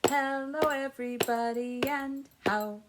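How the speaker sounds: sing-song hello to the class; greeting the children. Shown as a demonstration.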